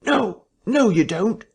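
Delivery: high, loud sharp cry of protest. Acted. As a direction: cry out to stop someone. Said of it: "a sharp cry of".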